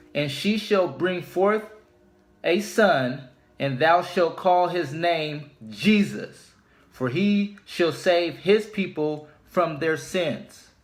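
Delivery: slow, measured Bible reading with each line weighed; solemn scripture reading. Acted. Preacher reading Matthew to his viewers, slow and solemn. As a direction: read the verse slowly and deliberately, like from the pulpit. Rereads the same verse.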